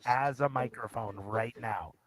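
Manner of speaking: thin muffled headphone-mic sound; talking into headphones as a mic; headphones used as mic. Real, not acted. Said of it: "I'm using a pair of headphones as a microphone".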